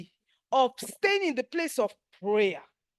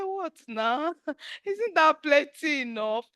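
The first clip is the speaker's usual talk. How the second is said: laughing through a rising question; laughing disbelief; 2 semitones higher, slower than usual. Retold or imitated. Retelling her prayer to God, laughing in disbelief. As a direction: laugh in amused protest.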